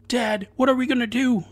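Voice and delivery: put-on high, frightened child voice; scared child's cry. A narrator's reading. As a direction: plead with his father in panic. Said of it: "the boy cried".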